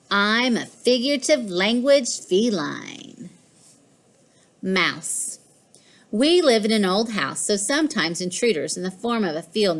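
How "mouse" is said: hushed whisper; secretive whisper. A narrator's reading. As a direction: whisper it as if stalking prey. Cat stalking a mouse.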